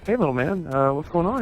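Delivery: high, bright customer-service greeting; cheery server voice. Retold or imitated. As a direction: pitch it up like a waiter charming a kid. Greeting the birthday boy again.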